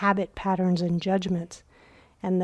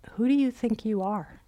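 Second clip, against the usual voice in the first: unkind challenge; 3 semitones higher than usual. Acted. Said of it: "He didn't say it kindly".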